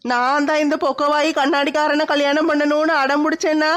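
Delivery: hammed-up self-pitying crying, almost like singing; wailing lament. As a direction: lament aloud, stretching out each last vowel. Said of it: "படுத்து கிடந்து தனியா புலம்பிக்கிட்டு இருக்க?".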